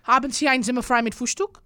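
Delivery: put-on German accent. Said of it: "the only thing I know how to say in German".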